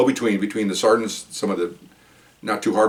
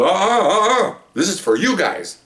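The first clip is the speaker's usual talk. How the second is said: wag a finger in a sweet lady's voice; scolding lady; 8 semitones higher, slower than usual. Retold or imitated. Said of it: "She goes".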